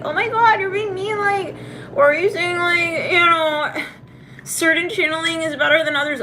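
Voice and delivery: high-pitched mocking whine; mock complaining commenter. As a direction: put on a high, affronted voice to mimic critics. Voicing online commenters' complaints.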